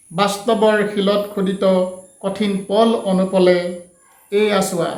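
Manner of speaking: measured poetry reading, line by line; unhurried recital, pausing after each line; poem recitation. Acted. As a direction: recite the verse with long pauses between phrases. Poet recites own poem.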